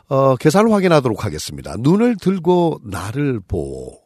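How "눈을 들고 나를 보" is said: slow reading. Shown as a demonstration. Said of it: "이 말이 이제 북한 말인데".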